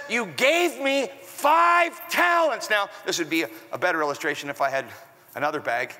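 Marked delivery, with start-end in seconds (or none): 0.1-2.7 slow, deliberate presenting of the gift; slow acted-out servant. Shown as a demonstration. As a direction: hold each word out like offering a bag. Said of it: "I gotta just kinda act this out".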